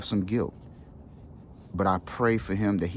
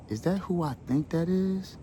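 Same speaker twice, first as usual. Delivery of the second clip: stunned disbelief; 10 semitones higher, 3 dB quieter than usual. Retold or imitated. Recognizing his long-absent father.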